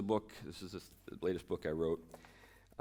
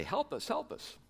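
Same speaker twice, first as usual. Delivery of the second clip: pleading hobbits. Retold or imitated. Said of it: "Frodo and Sam run up to him and say".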